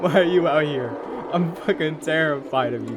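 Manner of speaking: loud, high panicked shrieks; terrified screaming. Real, not acted. Streamer chased by a creepy monster, panicked screaming. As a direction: scream in real terror as it chases you.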